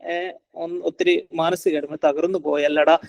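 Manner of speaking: put-on understated sympathy to a child; mildly tender demo of empathy; empathetic parent. Shown as a demonstration. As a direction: gently acknowledge the child's hurt. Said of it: "എന്ന രീതിയിൽ ഒരു എമ്പതി".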